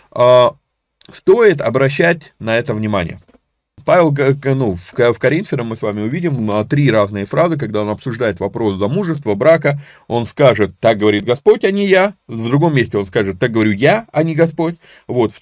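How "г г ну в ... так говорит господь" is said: ordinary delivery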